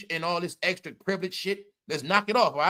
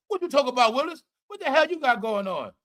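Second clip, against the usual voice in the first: quoting the catchphrase; 5 semitones higher than usual. Retold or imitated. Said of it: "that's what they said".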